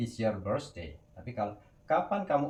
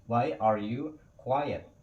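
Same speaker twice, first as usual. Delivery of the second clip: very slow, with each word clear; slow teacher model; slow model sentence; much slower than usual. Shown as a demonstration. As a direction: drag it out so learners catch each word. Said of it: "teacher models question".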